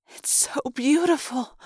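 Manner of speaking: high, slow and awestruck; dreamy, drawn-out admiration; hushed wonder. A narrator's reading. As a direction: marvel at it slowly in a lifted voice. Girl marvels at the nebula.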